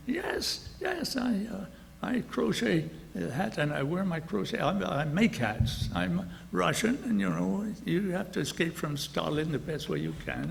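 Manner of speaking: a lightly voiced old lady, high at first then settling; old Russian lady. Old lady on the bus chatting to the boss, lightly voiced. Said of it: "little old lady gets on".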